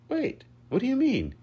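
very high, loud yelp; alarmed yell. A narrator's reading. Lucas thrown toward the pool, yelling. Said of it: "he yelled as he flew in the air".

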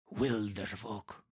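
slow, soft character voice; hushed dread. Acted. Startled man names the feared enemy.

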